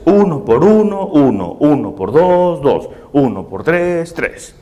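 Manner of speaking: sing-song times-table chant; rote schoolroom recitation. Acted. Primary pupils repeating multiplication tables, chanting by rote.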